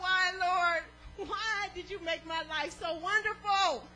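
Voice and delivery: comic over-the-top thanks, half laughing; preacher mocking a believer asking why life is so good; mock grateful prayer. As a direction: ham up a boastful prayer for laughs. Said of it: "none of us ever come to this side and say".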